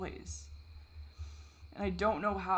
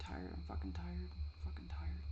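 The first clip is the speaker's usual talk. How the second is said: exhausted whisper; 8 dB quieter than usual. Real, not acted. Alone at the camera, admitting exhaustion in a whisper. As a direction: breathe the words out, worn out.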